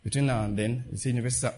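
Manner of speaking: soft, casual prayer voice; quiet, conversational prayer. Retold or imitated. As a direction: pray softly as if just talking. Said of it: "I said".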